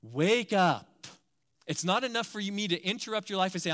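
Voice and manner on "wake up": shouted wake-up call; sudden loud wake up. Acted. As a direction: boom it out to wake them. Preacher calls congregation awake.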